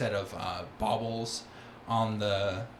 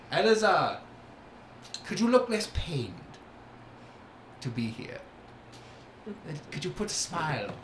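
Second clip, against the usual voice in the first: Oberon chiding; 6 semitones higher, faster than usual. Acted.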